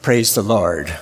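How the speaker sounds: gentle praise. Shown as a demonstration. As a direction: say it calmly and sincerely. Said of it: "it's all right to say".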